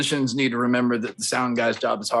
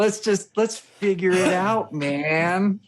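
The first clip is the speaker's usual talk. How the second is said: acted conciliatory plea, higher and drawn out; nice guy; 8 semitones higher, much slower than usual. Nice sound guy smoothing over a problem, acted friendly plea. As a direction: play the friendly peacemaker, pitched up. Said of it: "go in as a nice guy and be like".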